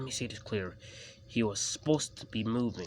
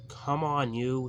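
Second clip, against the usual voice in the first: crossly; 4 semitones higher, 3 dB louder, slower than usual. A narrator's reading. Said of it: "said his driver crossly".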